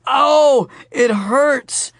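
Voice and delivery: high, loud faked pain; milk it like a bad actor; wailing. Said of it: "Charlie wailed".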